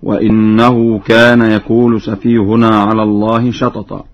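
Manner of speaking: وإنه begins wa-inna, i on hamza; Warsh kasra hamza. Shown as a demonstration. Teacher gives a second example from al-Jinn, kasra on hamza. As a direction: clear i vowel in وإنه. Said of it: "بكسر الهمزة".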